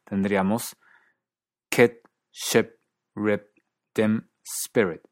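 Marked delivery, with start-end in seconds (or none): 1.7-5.0 KIT, SHIP, RIP, DIM, SPIRIT with Canadian retracted vowel; Canadian short I pulled back, near 'eh', in Kit, Ship, Rip, Dim, Spirit; Canadian accent. Shown as a demonstration. Teacher comparing four accents, first the Canadian retracted vowel. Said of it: "Canadá".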